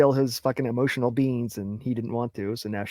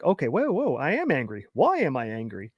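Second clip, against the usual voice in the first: catching yourself. Acted. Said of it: "you gotta catch yourself".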